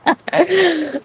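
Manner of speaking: high little witchy cackle; witch cackle. Real, not acted. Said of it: "I sound like a little witch laughing".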